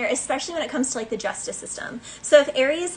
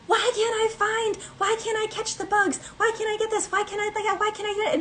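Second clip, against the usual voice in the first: whiny Pisces; 9 semitones higher than usual. Pretend. Reader voicing a frustrated Pisces, high whiny complaint. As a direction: whine like a frustrated spider. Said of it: "So if you're like".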